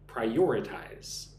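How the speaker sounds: "Prioritize" slowly, leaning on the second syllable "or"; second-syllable stress. Shown as a demonstration. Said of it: "The emphasis on the second syllable".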